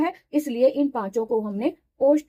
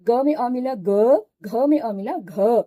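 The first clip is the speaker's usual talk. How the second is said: slow syllable drill; slower than usual. Shown as a demonstration. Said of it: "इस तरह से हम व्यंजनों में स्वर को मिलाकर इनको बोलते हैं".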